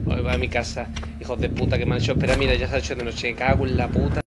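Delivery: loud, grumbling acted tirade; hammed-up irritated outburst; angry rant. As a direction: complain loudly about being kept waiting. Dubbed character ranting about waiting.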